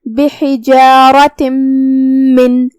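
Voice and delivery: بحجارة من slowly, the tanween merged into the م with a hum; بحجارة من merged with nasalization; idgham with nasal. Shown as a demonstration. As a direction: merge the ending of بحجارة into من, humming. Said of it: "غنہ کے ساتھ اور تشدید کے ساتھ".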